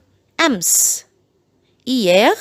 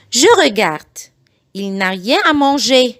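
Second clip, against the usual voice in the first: very slow, each syllable spelled out; slow it right down so parents can copy; slow model sentence for learners; slow teaching read; much slower than usual. Shown as a demonstration. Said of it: "بعيد الجمل بالراحة جدًا".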